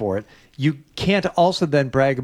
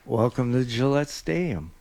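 Nick. Retold or imitated. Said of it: "Sarge, do it as Nick".

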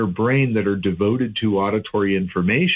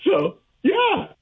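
high, beaming through a smile; smiling voice; 11 semitones higher, slower than usual. Real, not acted. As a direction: grin while you say it. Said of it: "You can hear the smile in my voice".

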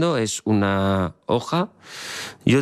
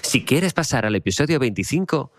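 slightly raised credits-announcer voice; 3 semitones higher than usual. Shown as a demonstration. Host demonstrating the episode-choice line, mild credits voice. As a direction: lightly put on a credits voice. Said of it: "Pero así con voz de crédito".

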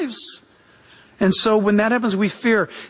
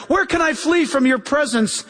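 higher-pitched, mild cry to God; 4 semitones higher than usual. Retold or imitated. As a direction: voice David's plea, lightly raised. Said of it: "David cried out".

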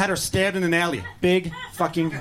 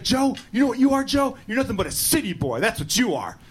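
mocking redneck voice; 5 semitones higher than usual. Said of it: "He's like".

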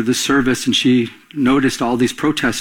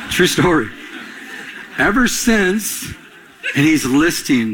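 laughing through words; 3 semitones higher, slower than usual. Real, not acted. Laughing while telling the story.

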